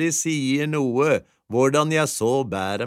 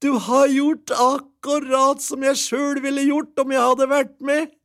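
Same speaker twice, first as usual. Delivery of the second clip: put-on higher, delighted old wife; wife praising husband's trade; cheerful wife; 13 semitones higher, 4 dB louder than usual. A narrator's reading. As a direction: gush like a pleased wife. Wife's happy voice.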